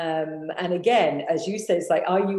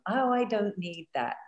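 voicing self-denying women; 4 semitones higher than usual. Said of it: "women take themselves out of the game".

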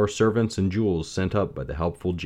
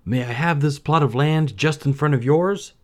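put-on higher polite young man; Aladdin voice; 8 semitones higher, 5 dB louder than usual. A narrator's reading. Aladdin asks Sultan.

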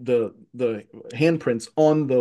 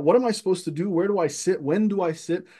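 higher-pitched, flustered string of questions; nervous; 5 semitones higher than usual. Retold or imitated. Nervous twelve-year-old unsure where to sit, flustered. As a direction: act out nervous confusion. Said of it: "I'm acting very nervous".

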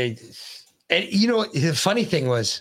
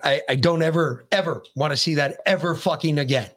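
angry rant. Retold or imitated. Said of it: "I was like".

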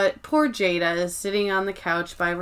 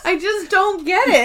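much higher, a mocking echo of her line; 10 semitones higher than usual. Repeating the quote to her friend in a high mock voice. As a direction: squeak it back like her.

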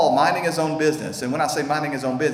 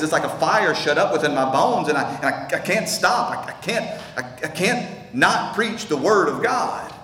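impassioned cry; 3 semitones higher than usual. Acted. Preacher voicing Jeremiah's burning call, rising, impassioned. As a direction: pitch climbing higher on "I can't", near breaking with a laugh. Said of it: "he says".

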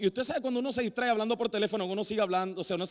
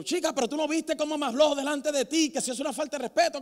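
indignant protest; 4 semitones higher than usual. Acted. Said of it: "Y yo".

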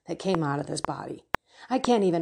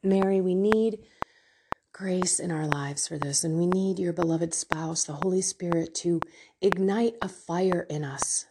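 earnest prayer. Acted. Leads a closing prayer.

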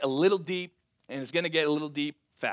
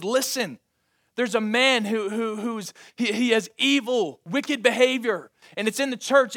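Paul's loud rebuke; 6 semitones higher, 7 dB louder than usual. Acted. Preacher voicing Paul's rebuke.

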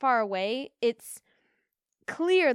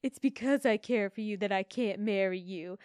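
quoting the Duke. Retold or imitated. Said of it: "when the Duke says".

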